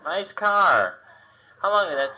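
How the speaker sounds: a cow greeting a driver; hammed-up friendly cow; talking cow. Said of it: "I'd like to see the cow go".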